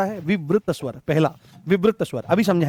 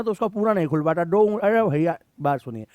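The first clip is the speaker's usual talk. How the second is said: half-open mouth. Retold or imitated. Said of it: "जैसे कोई गुटखा खाता है ना".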